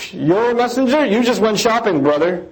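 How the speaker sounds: mock the prophet with a scornful scoff; scoffing mock taunt. Disbelievers taunting the messenger, a scoffing retold jeer. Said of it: "when they talk like this".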